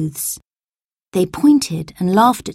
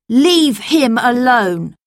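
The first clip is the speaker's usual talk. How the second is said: slow, louder warning; commanding shout; 5 semitones higher, 5 dB louder, slower than usual. A narrator's reading. Toby orders the pickpockets away, slow commanding shout. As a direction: order them off firmly. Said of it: "came a loud voice above them".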